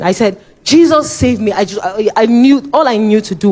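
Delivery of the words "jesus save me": crying out to Jesus; retold shout. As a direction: call out to Jesus, pleading. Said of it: "I just said, shouting".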